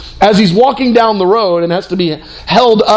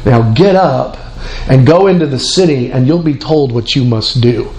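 voice of Jesus; 7 semitones lower than usual. Acted. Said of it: "And then Jesus speaks to this man".

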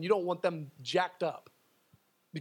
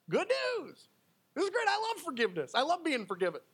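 much higher, bright burst of joy; delighted; 7 semitones higher than usual. Real, not acted. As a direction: cheer the good news like a gift. Preacher rejoices over forgiveness.

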